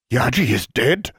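high, stunned disbelief; shocked question. A narrator's reading. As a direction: gasp it out in disbelief. Shocked at news of death.

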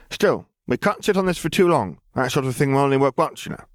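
put-on a cheerful scheming girl; voicing the young girl Lily, high and eager; Lily's bubbly girl voice. A narrator's reading. Lily speaks again.

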